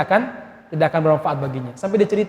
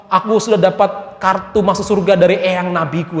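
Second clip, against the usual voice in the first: mocking boast; 3 semitones higher than usual. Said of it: "disuruh sholat malah ngomong".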